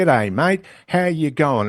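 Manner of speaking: typical Aussie greeting, each sentence tilting up at the end; Australian upward inflection. Retold or imitated. Voice coach imitating a typical Australian with rising inflection. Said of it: "always an upward inflection at the end".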